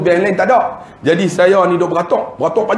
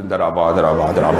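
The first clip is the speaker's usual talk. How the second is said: lower, laughing retreat; nervous laughing backdown; 11 semitones lower, much faster than usual. Retold or imitated. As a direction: laugh it off and back away quickly. Penceramah undur cepat sambil ketawa. (undur sambil ketawa gugup)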